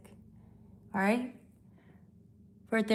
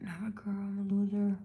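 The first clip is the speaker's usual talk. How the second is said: whispered mocking read; whispering a viewer's self-pity; 4 dB quieter than usual. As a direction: hush it like a sulky confession. Reading a viewer's comment mockingly.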